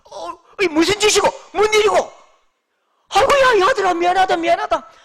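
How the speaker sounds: high, loud, hammed-up apology in dialect; flustered apologizer. Preacher acting out how Jesus should have woken, flustered apology. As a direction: apologize profusely, then shout down the waves. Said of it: "상식적인 양심이 있는 분은 어떻게 하겠습니까".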